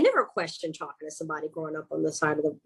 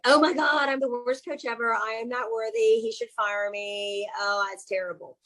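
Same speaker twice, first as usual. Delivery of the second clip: mock self-berating; 3 dB quieter than usual. Coach retells scolding herself over a calendar slip, mock self-berating. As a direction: imitate beating yourself up, fading as it goes.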